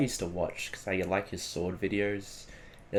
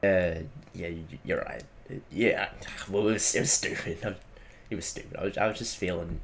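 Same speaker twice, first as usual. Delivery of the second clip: dejected mumble; 2 semitones lower than usual. Acted. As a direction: sulk it out, barely audible. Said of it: "What's got you down".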